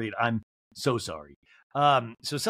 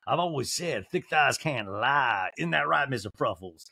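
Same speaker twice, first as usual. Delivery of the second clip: slow, drawn-out Southern drawl; mock Southern drawl; slower than usual. Host mimicking a housewife admiring triceps, mock Southern drawl. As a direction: tease in a lazy Southern drawl. Mimics Sutton in a talking head.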